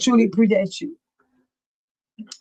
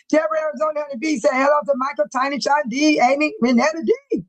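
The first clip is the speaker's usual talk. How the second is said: rushed, higher roll call running out of air; all in one breath; 4 semitones higher than usual. Real, not acted. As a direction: rattle off the names on a single breath. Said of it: "Boy, I'm out of breath".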